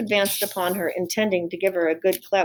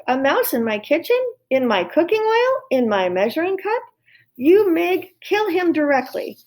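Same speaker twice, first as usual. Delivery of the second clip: much higher and louder, rising outrage; outraged cook; 9 semitones higher, 3 dB louder than usual. Acted. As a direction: scream orders at Mig over the mouse. Cook horrified at mouse.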